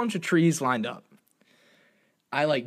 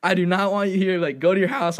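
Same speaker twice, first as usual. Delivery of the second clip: urgent; 3 semitones higher, 4 dB louder than usual. Retold or imitated. Urgent plea to leave.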